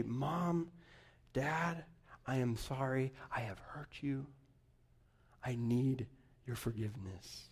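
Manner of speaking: hushed, near-whispered confession; soft apology. Retold or imitated. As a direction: say sorry softly, barely voiced. Repentant child apologizing to parents.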